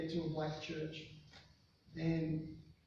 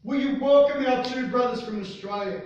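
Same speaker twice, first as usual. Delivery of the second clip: rejoicing preacher; 9 semitones higher, 11 dB louder than usual. Retold or imitated. Reverend keeps rejoicing, laughing.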